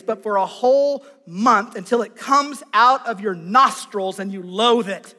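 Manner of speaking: loud, thundering divine reply; booming Lord. Acted. The Lord answers Moses' complaint, loud and thundering. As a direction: boom it out like God rebuking. Preacher voices the Lord's answer.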